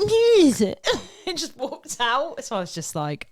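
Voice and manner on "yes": put-on sharp teen yes. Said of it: "She went".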